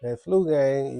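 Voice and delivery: stuffy nose from the flu; blocked nose, slightly congested. Real, not acted. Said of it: "I sound a little congested".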